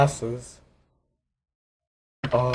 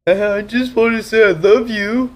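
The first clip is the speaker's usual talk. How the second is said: excited; 10 semitones higher, 7 dB louder than usual. Acted. Nick pleading louder.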